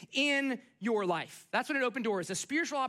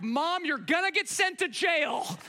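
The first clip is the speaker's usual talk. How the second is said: mock panicked kids; 5 semitones higher, 4 dB louder, slower than usual. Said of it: "kids are freaking out".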